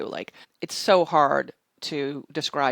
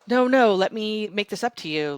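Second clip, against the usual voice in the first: flustered backpedal; 6 semitones higher, 5 dB louder than usual. Retold or imitated. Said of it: "he, like, stuttered".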